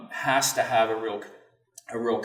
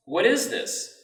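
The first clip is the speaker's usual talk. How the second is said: put-on child's question; 9 semitones higher, slower than usual. Son's first question, voiced.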